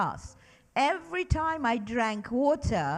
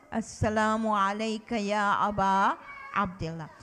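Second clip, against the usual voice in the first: put-on measured recitation, led for children to follow; recited with the class; 2 semitones lower than usual. Shown as a demonstration. Teacher leading children in the greeting, recited. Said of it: "And again".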